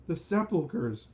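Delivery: understated wailing exclamation; moaning. A narrator's reading. Frightened townspeople crying out about the tombs, moaning. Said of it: "Some moan".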